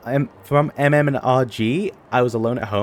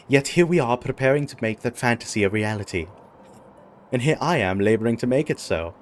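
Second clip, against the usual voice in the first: lightly voiced formal knight; noble knight NPC. Knight addressing his ally, lightly formal noble voice. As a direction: read it like a courtly knight, lightly. Voicing game NPC dialogue at length.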